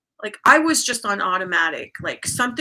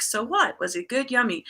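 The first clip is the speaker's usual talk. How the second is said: soothing self-talk; 2 semitones higher than usual. Retold or imitated. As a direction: reassure yourself lightly, close to your usual voice. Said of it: "these new soothing thoughts".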